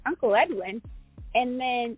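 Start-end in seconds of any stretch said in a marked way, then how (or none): 0.0-0.8 questioning repeat of the name, puzzled; who-is-that questioning tone; puzzled echo. Retold or imitated. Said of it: "I'm looking at her like".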